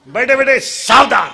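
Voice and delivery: loud, sudden attention call; drill command. Real, not acted. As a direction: call the class to attention loudly. Drill command to seated children.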